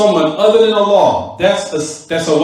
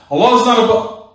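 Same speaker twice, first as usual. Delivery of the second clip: higher-pitched mock protest; evasive opponent; 5 semitones higher than usual. Opponent dodging the teacher's question, raised-pitch insistence. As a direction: lightly imitate a stubborn, repeated objection.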